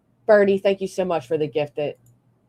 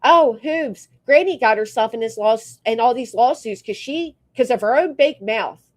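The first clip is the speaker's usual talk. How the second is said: mock the know-it-all commenter; mocking chat voice; 4 semitones higher than usual. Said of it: "they sit there in a chat as reality saying".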